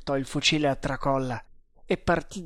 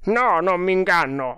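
high, loud denial; emphatic scout; 4 semitones higher, 6 dB louder than usual. Acted. Indian assuring the doubting captain, emphatic. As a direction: insist forcefully in a raised voice. Indian insists on his discovery.

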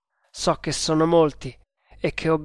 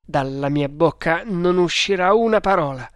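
firm, emphatic refusal; unshakable firmness; 2 semitones higher, 4 dB louder than usual. Acted. The prisoner vows to stay silent, firm. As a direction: declare it with full resolve. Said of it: "con fermezza incrollabile".

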